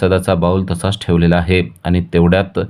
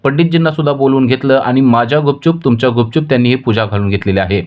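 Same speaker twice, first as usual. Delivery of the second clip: higher-pitched, heated complaint as the wife; wife angry that the puja was held behind her back, answering her husband heatedly; 6 semitones higher than usual. Acted. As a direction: snap back at the husband, fed up. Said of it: "ती चिडते आणि म्हणते".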